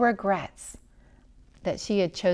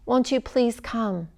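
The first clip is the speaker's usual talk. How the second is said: a mild, slow plea, understated; begging; 4 semitones higher, slower than usual. Acted. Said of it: "begged the man".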